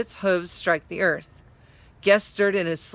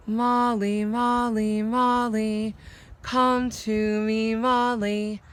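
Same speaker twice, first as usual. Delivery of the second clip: slow, lilting enchanting call; singsong spell call; 3 semitones higher, slower than usual. Acted. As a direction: lure her like a spell. Enchanted dog's calling song.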